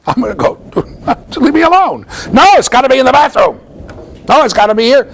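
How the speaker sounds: put-on high, loud bratty toddler yell; shouted id tantrum. Lecturer playing the id's tantrum for the class, high and loud. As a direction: stomp out the id's demands like a furious toddler. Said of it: "my id says".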